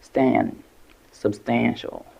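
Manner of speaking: "Stan" alone, then "substantial" stressed on it; "substantial" with its middle syllable prominent; stress on second syllable. Shown as a demonstration. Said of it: "The stress is on the second syllable".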